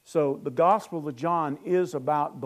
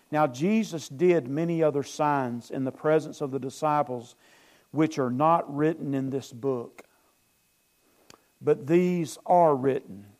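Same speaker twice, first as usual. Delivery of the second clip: scripture reading; 3 dB louder than usual. Acted. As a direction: read the verse out with weight. Reads scripture aloud.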